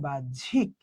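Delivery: বাহ্যিক slowly split as "baj-jhik"; syllable break. Shown as a demonstration. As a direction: draw out বাহ্যিক, stopping after "baj". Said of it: "যেখানে হতে থামছে".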